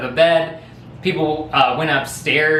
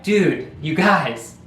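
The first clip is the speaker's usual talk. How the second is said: mock plea; 5 semitones higher than usual. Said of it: "my buddy's like".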